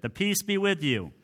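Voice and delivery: rote church greeting. Shown as a demonstration. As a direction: toss it out like a habitual liturgical greeting. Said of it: "just becomes something that just rolls off".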